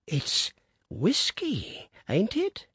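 put-on thin, high, slow old man's pipe; piped feebly. A narrator's reading. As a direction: pipe it up weakly like a frail old man. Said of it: "he piped feebly".

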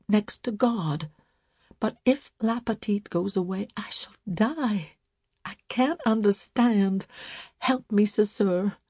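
lightly voiced tearful woman; a hint of crying under the words; mild tearful plea to her sister; through sobs. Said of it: "tried to talk through her sobs".

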